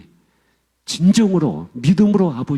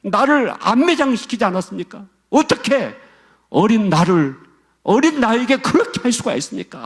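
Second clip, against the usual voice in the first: anguished outcry; 6 semitones higher than usual. Retold or imitated. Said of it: "이분이 막 절규를 하는 거예요, 막 울면서".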